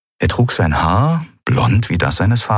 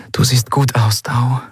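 whispered, slightly raised voice; 5 semitones higher than usual. A narrator's reading. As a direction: whisper it to him confidingly. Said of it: "flüsterte sie". (geflüstert)

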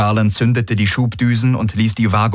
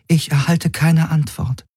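higher, otherworldly alien voice; alien entity voice; 8 semitones higher than usual. A narrator's reading. The Helix explains the ships' doubt in a strange voice. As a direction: sound distant and strange, not human.

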